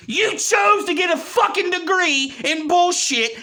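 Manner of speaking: heated ranting shout; angry shout. Real, not acted. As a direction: let it rip, shouting them down. Angry rant at critics, shouting.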